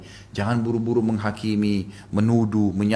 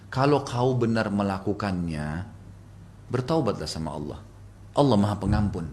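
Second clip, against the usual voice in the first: kind, courteous; 3 semitones lower, 4 dB quieter than usual. Retold or imitated. Husband urging his wife to repent, gentle and courteous. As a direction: counsel softly and politely. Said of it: "dengan suara baik, santun".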